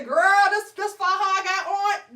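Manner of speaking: imitating a friend spilling about her faja; mock gushing friend. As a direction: overshare the secret with gusto. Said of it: "You ain't gotta go say".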